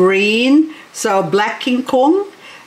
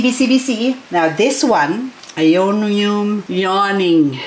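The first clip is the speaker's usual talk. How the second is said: ordinary talk, nothing marked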